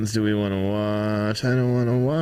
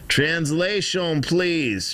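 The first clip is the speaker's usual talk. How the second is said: slow, higher mock Russian accent on "Translation"; 6 semitones higher, much slower than usual. Shown as a demonstration. Streamer asking for a translation in a slow mock Russian accent. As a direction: drag out "Translation, please" in a put-on Russian accent. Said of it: "That's how you say it with an accent".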